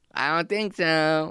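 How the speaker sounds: silly invented gopher voice, high and slow. Doing a made-up voice for a gopher character: made-up gopher voice. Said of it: "I made up the voice".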